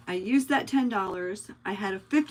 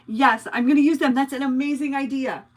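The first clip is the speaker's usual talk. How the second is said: loud, higher, delighted agreement; real excitement; 5 semitones higher, 7 dB louder than usual. Real, not acted. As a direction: jump at a great idea. Delighted by viewer's suggestion.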